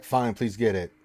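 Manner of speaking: grudging, dismissive please; snarky comeback. Retold or imitated. Streamer mocking a viewer's snarky request. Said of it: "Give me that snarky comeback".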